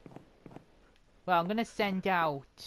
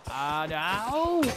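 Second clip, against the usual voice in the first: rising wail; 3 semitones higher, 4 dB louder than usual. Real, not acted. Cries out in the fight.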